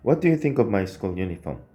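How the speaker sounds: slow, careful reading aloud; slow model reading. Shown as a demonstration. Teacher reading the finished sentence aloud for the class. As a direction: read it slowly to check it sounds natural. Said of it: "이라고 한번 읽어주시면".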